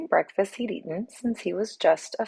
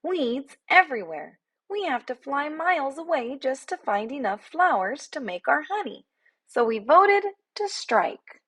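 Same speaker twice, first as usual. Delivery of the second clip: much higher sarcastic little bee voice; a small bee talking down to a bear; sassy tiny bee; 8 semitones higher than usual. A narrator's reading. Bee explains the strike.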